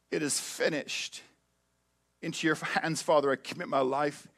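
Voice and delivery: soft, low last words from the cross; softly, the dying Jesus. Acted. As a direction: let the last breath carry it.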